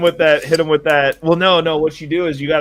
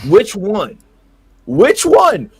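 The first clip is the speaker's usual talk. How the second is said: higher and louder each time; rising rhetorical shout; 7 semitones higher, 5 dB louder, much slower than usual. Real, not acted. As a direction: press the question harder. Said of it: "S0 repeats louder as a challenge".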